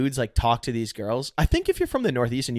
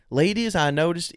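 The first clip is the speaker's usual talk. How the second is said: Southern guy; 6 semitones higher than usual. Retold or imitated. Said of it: "he's from Alabama".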